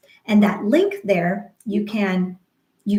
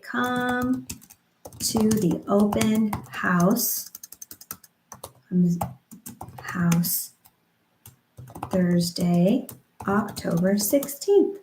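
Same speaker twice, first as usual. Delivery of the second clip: rhythmic slow invite; 4 dB quieter, slower than usual. Shown as a demonstration. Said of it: "I'll say".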